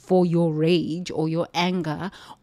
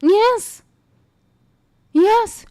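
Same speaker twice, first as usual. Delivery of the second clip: much higher and louder, ecstatic affirmation; fervent yes; 13 semitones higher, 7 dB louder than usual. Real, not acted. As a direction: cry out yes like the sermon peaks. Preaching climax exclamation.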